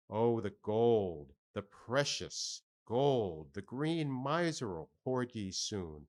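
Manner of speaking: slow, hushed musing over gold; a hint of dazed wonder; lightly voiced mad boy. Pip muses over the doubloon.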